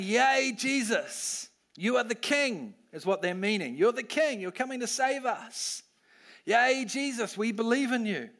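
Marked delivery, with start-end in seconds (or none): 0.0-2.7 cheering crowd. Acted. Preacher voicing the Palm Sunday crowd, mock cheering. 3.8-8.3 cheering crowd. Acted. Preacher voicing the Palm Sunday crowd, mock cheering.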